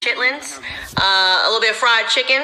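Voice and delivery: lightly mocking a put-on Southern accent, as AOC. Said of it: "A O C now talks like us".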